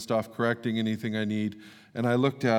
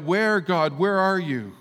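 desperate cry, higher and louder; crying out to God; 8 semitones higher, 7 dB louder, slower than usual. Pretend. Overwhelmed believers crying out for God, desperate cry. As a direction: call out to a God who seems absent. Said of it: "we will cry out".

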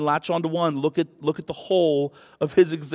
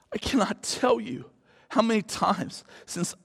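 whisper; 4 semitones higher, 6 dB quieter than usual. Real, not acted. Whispered confession continues.

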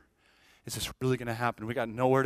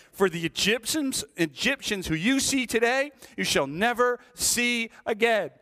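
Moses declaring; 5 semitones higher than usual. Acted. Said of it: "Moses said to the people".

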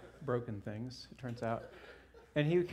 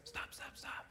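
breathy retold whisper, almost no voice; 12 dB quieter than usual. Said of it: "and he whispers".

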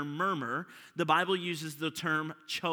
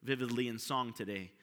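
soft, low prayer voice; hushed reverent prayer; 7 semitones lower, 11 dB quieter than usual. Acted. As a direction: pray quietly and humbly to the Father. Opening prayer before the sermon.

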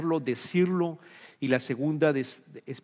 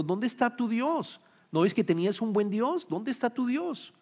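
lightly voiced challenge, questions pitched up; taunting neighbours; 5 semitones higher than usual. Neighbours challenging the psalmist about his God, mildly taunting. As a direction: needle him with rising questions, lightly acted. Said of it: "sus vecinos le están diciendo".

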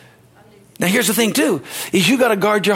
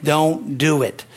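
slow firm; 3 semitones lower, much slower than usual. Shown as a demonstration. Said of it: "Can you do it in faith?".

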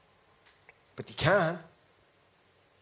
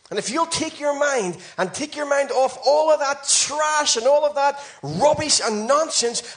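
rousing preaching; 3 semitones higher than usual. Acted. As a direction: preach victory with rising force. Preaches at full force.

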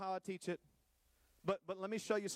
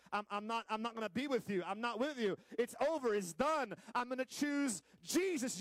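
defiant break-up; 4 semitones higher than usual. Acted. Acted break-up over faith.

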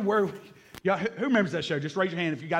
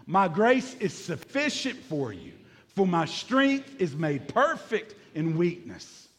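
slow unison scripture reading; slower than usual. Shown as a demonstration. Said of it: "Say this verse with me".

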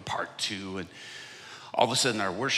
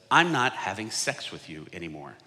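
defiant announcement; 5 semitones higher, 13 dB louder than usual. Retold or imitated. Girlfriend citing her pastor to her boyfriend, defiant mock announcement. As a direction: belt it out as the girlfriend's proud retort.

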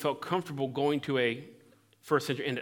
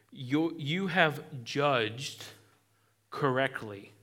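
slow approval; 4 dB quieter, much slower than usual. Acted. Jesus affirming Simon.

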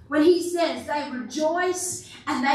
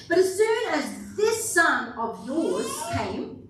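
venomous; slower than usual. Retold or imitated. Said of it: "listen to the venom coming out of this guy".

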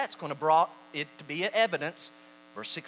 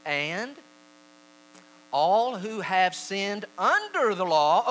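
slow, emphatic scripture reading; louder, higher and drawn out; 4 semitones higher, 6 dB louder, slower than usual. Shown as a demonstration. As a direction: declare the verse deliberately. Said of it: "I'm gonna read it slowly".

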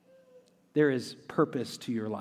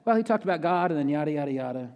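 playful brush-off; 3 semitones higher, 4 dB louder, faster than usual. Pretend. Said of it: "you can say to your friends".

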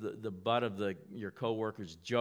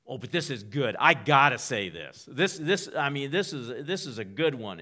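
bursting with eagerness, louder; higher, insistent, itching to get it out; dying to say it; 4 semitones higher, 8 dB louder than usual. Acted. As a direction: blurt it as an irresistible urge. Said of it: "you're just dying to say it".

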